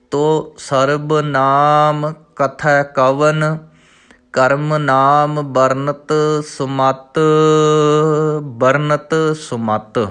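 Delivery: slow, measured recital of the verse; slow devotional reading; scripture recitation. Shown as a demonstration. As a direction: recite each word slowly and clearly.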